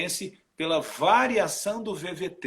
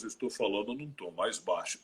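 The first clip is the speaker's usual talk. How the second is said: much lower, thickened voice; deepened voice; 8 semitones lower, 7 dB quieter than usual. Shown as a demonstration. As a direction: drop the voice down low to show a low tone. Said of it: "se eu engrossar a voz".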